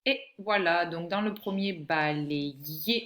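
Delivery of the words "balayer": "balayer" slowly split into syllables. Shown as a demonstration. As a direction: separate each syllable of "balayer", in a teaching voice. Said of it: "ye sur la troisième syllabe".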